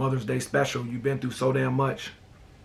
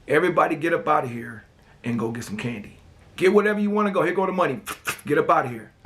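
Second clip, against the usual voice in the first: mama's orders; 3 semitones higher than usual. Retold or imitated. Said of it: "My mama gave everybody money".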